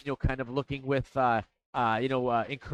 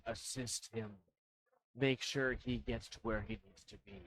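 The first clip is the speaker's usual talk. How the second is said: booming deep voice; 5 semitones lower, 10 dB quieter than usual. Acted. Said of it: "Like a booming, deep voice".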